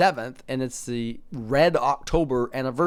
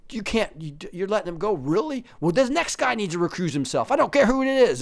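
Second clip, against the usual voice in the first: hammed-up panic, pitched way up; 4 semitones higher than usual. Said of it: "It's like".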